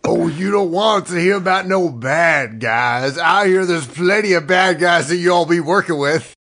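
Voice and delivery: cowboy voice. Acted. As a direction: warn them like a sly cowboy. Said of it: "do it in a cowboy voice".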